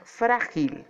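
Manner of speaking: "frágil" with the weight on "frá"; stress on first syllable. Shown as a demonstration. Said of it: "la sílaba tónica es fra". ("frágil" con fuerza en "frá")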